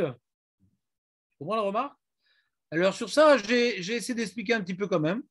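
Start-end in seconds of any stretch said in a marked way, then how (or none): 0.0-2.0 drawn-out, deliberate repeat of the question; slow it right down and press the point; teacher re-asks the class slowly, insistently. Shown as a demonstration.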